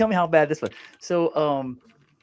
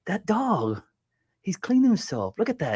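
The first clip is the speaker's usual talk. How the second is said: higher-pitched voice for the buddy; joke's staring buddy; 8 semitones higher than usual. Retold or imitated. Buddy pointing out a dog to the driver, acted fascination. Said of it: "I see my buddy just staring".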